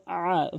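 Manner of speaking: আ wrongly squeezed from mid-throat like an ayn; mistaken ayn. Shown as a demonstration. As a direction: press আ in the throat as if it were আইন. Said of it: "আইনের উচ্চারণ করে ফেলে". (আ ভুল করে আইনের মতো চেপে)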